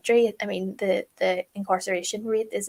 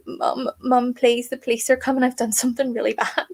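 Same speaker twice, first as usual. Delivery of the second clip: mildly imitated frantic plea, slightly higher; panicked daughter; 4 semitones higher than usual. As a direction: play the scared daughter lightly, rushing at the end. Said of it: "audibly upset".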